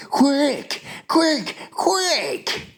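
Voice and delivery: very high, excited urging; urgent cry. A narrator's reading. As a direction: hurry the helper along. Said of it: "he cried".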